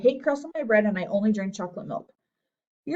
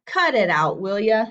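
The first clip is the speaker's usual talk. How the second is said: annoyed protest; 5 dB louder, slower than usual. A narrator's reading. Boy snaps at teasing friends.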